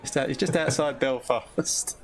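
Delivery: put-on slow, laughing echo in a Belfast accent; playful imitation of a Belfast accent; mimicked Belfast accent. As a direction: draw out the Belfast accent teasingly. Echoes guest's Belfast answer, laughing.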